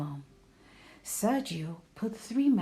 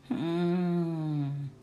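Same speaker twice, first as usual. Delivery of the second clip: smiling. A narrator's reading. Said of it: "said Mom, smiling".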